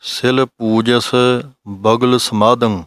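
very slow, deliberate scripture chanting; slow recitation. Shown as a demonstration. Teacher reciting the Gurbani line for students, slow recitation. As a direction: draw out each word like reading from the Granth.

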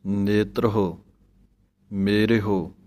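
ਨੇਤਰ ਹੋ with a separate ho, not ਨੇਤਰੋ; separate ho sound. Shown as a demonstration. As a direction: say ਮੇਰੇ ਹੋ as two words, not ਮੇਰਿਓ. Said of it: "ਹਾਹੇ ਔਂਕੜ ਲਿਖੀ ਹੈ ਤਾਂ ਆਵਾਜ਼ ਦੇਣੀ ਹੈ".

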